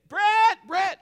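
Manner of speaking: high, loud imitation of a wife calling; imitating an urgent, high-pitched shout; elevated voice. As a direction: yell the name in mock alarm. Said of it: "the voice is elevated".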